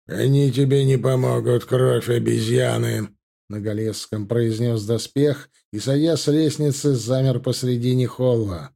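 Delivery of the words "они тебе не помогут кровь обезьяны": grind it out like rusty metal; grinding metal demon. Acted. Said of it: "Скрежетом ржавого металла прозвучал демон".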